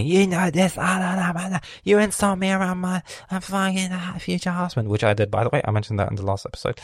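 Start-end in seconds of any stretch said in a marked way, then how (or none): 0.0-4.9 much higher, louder mocking sister voice. Imitating his sister's complaint at him, mocking whine. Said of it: "she starts talking with me".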